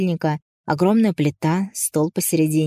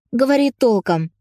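harsh barking command; 6 semitones higher, 4 dB louder than usual. Acted. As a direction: snap at him, high and loud. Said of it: "на Зорга рявкнула Ника".

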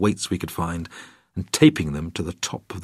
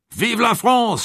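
high, ringing cheer; triumphant French cheer; cheering shout; 13 semitones higher, slower than usual. Acted. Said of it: "shouted Jean-Marie".

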